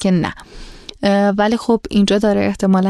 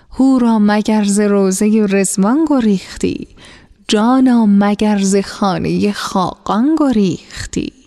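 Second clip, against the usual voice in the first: slow, measured poem recital; recited verse. Acted. Merchant reciting a love poem to the captive maiden, slow and measured.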